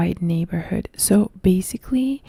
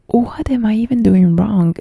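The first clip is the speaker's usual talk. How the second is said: louder, exasperated self-quote; retold exasperation; 3 semitones higher, 7 dB louder than usual. Student puzzled by the teacher's worst notes, retold exasperation. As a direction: replay your old frustration at full volume. Retold frustration over bad university grades.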